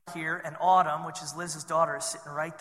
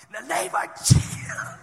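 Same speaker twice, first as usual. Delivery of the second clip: commanding shout; 10 semitones higher, 7 dB louder than usual. Retold or imitated. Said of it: "Finally, I go".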